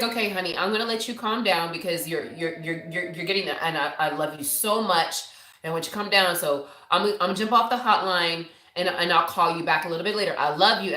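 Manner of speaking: low, even, unbothered soothing; monotone, placid fiance. Retold or imitated. Fiance letting her calm down before hanging up, monotone. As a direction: imitate a calm partner refusing to argue. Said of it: "he's just so monotone".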